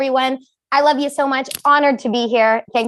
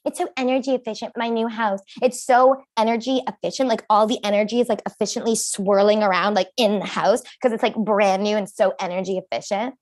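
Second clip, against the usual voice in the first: bragging friend. Retold or imitated. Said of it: "she was bragging".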